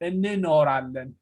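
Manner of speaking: እንኖራለን with the two N's sounded separately; separated double N. Shown as a demonstration. Teacher showing student consecutive N's, እንኖራለን with each N separate. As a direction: pronounce both N's distinctly in እንኖራለን. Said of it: "Separate the two N's".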